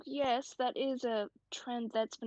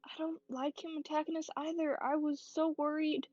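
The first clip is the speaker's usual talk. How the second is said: reassuring friend. Acted. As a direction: talk her down gently. Comforting a scared friend in-character.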